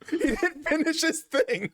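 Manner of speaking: high, slow whiny complaint; high whiny protest. Real, not acted. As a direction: whine it out in a high voice.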